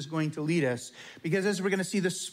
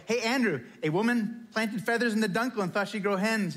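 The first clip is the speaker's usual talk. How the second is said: eager; 5 semitones higher than usual. Retold or imitated. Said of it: "rushed back down the hall".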